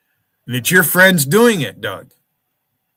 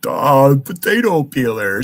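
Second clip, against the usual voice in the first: hammed-up dopey shout of potato peeler; mock dimwit shouting; mock dumb voice; slower than usual. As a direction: yell it like a dimwit. Mocking a dim-witted chatter.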